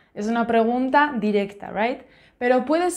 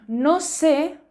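slow, careful example sentence; much slower than usual. Shown as a demonstration. Teacher reads an example to online students, slowly. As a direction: spell it out slowly for learners. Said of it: "Por ejemplo".

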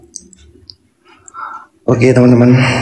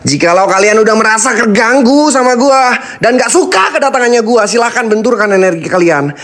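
loud challenge; 11 semitones higher than usual. Real, not acted. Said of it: "menantang kalian dengan lantang".

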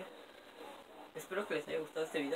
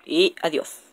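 loud call; 14 dB louder, slower than usual. Real, not acted. Loud sign-off.

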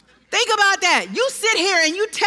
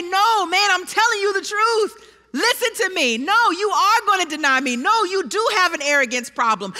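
pushy insisting; 3 semitones higher than usual. Retold or imitated. Preacher imitates pushy arguing Jesus.

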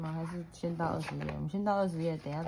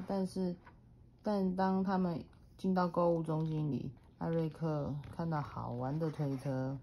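put-on reading to a toddler; 3 semitones higher than usual. A narrator's reading. Mother reads picture book aloud.

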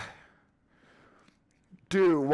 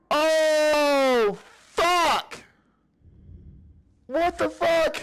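panicked yelling; 9 semitones higher, much slower than usual. Real, not acted. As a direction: yell while being grabbed. Grabbed by monster, screaming.

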